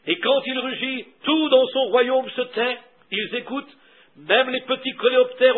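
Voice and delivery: driving, emphatic sermon delivery; animated preaching. Acted. Preacher describing the animals under the lion's rule, animated. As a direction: build the picture phrase by phrase.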